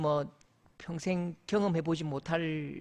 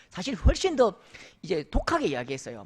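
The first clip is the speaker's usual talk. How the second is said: ordinary talk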